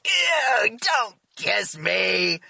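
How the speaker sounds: put-on high, whiny teen girl voice; mock daughter squealing ew; imitating daughter. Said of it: "as my daughter was like".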